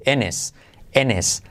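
"en his" run together as "en-es"; H dropped. Shown as a demonstration. Teacher linking words for learners, "en his" without the H. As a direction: skip the H of "his", vowels like E. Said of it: "I como E, pero salto la H".

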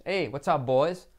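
put-on casual greeting, "boys" with a popped b. Shown as a demonstration. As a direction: lips shut for the b of "boys". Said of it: "Con B".

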